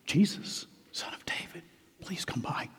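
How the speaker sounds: hushed, barely voiced request; timid whisper. Shown as a demonstration. Preacher showing how Bartimaeus didn't call Jesus, timid whisper. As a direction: whisper it as a meek little plea. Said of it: "So Bartimaeus didn't say".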